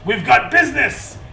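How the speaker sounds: high, loud angry bark; yelling. Acted. Boss yelling at his stunned henchman. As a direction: snap him out of it. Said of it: "He yells out".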